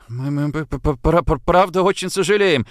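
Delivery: stuttering on "пра-" before "правда"; stammering. A narrator's reading. Boy apologising to the detective, stammering "п-, п-, пра-". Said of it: "начиная заикаться".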